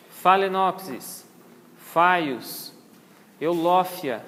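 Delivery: PH in "phalaenopsis" and "phaius" said as F. Shown as a demonstration. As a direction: read out "phalaenopsis, phaius, eulófia" with F. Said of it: "ele tem som de F". (PH com som de F)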